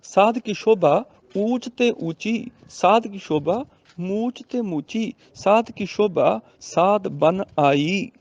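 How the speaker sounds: slow, drawn-out sacred verse reading; measured teaching recitation; scripture recitation for teaching. Shown as a demonstration. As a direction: recite the line slowly, stretching the ends.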